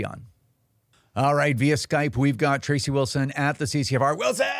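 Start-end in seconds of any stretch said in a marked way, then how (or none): 4.2-4.5 high-pitched, drawn-in cheer of a name; hailing call. Real, not acted. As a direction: call out the guest's surname like a catchphrase. Host hails guest by surname.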